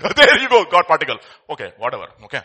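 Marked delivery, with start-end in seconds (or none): 0.0-1.2 mock delight, higher and louder with a laugh; mocking laughter. Preacher mocking scientists naming the God particle, laughing. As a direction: laugh it out like a fake triumph.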